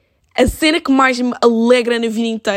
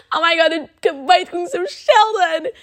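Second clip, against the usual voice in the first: excited; 8 semitones higher than usual. Retold or imitated. Waking from dream crying happily.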